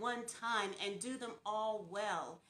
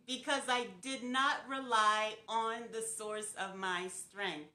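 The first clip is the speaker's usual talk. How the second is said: sincere; 4 semitones lower than usual. Real, not acted. Sincere confession, lowered voice.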